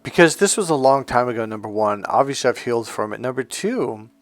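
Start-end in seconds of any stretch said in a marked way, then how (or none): none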